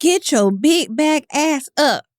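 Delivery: play-acted, very slow, high, drawn-out barking yell. Picturing a smart speaker waking someone for the gym: imitating a yelling Alexa. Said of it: "I want her to yell at me".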